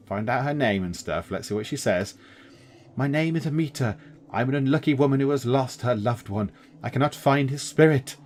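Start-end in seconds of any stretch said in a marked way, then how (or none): 3.0-8.2 moaning, sobbing. Acted. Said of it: "moans the wraith, sobbing".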